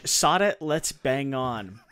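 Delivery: slow, careful try at "Sod it, let's bang on" in a mock English accent; American mimicking an English accent; imitating an English accent. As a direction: parrot the English phrase slowly in a put-on English accent. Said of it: "I don't even think I'm pronouncing that right".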